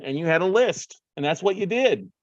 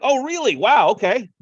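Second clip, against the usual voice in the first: high-pitched, louder surprised reaction; retold surprise; 9 semitones higher, 5 dB louder than usual. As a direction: re-enact being caught off guard. Retold surprised reaction to her answer.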